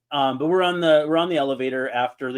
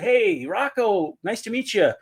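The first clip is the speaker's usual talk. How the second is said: eager fan greeting; 4 semitones higher than usual. Retold or imitated. Retelling meeting the coach in the elevator, over-eager greeting. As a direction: greet him too keenly, stretching the name. Acts out his gushing greeting.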